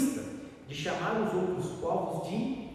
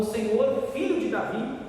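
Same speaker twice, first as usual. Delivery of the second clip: raised, high-pitched imitated plea; retold crying out; 8 semitones higher, 4 dB louder than usual. Preacher voices a supplicant clamouring before Jesus, retold high cry. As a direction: call out for mercy, high all through. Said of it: "chegou diante de Jesus e clamou".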